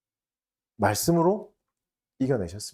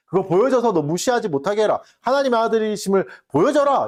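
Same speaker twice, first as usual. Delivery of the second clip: Satan's urging; 5 semitones higher than usual. Retold or imitated. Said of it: "이렇게 말해요".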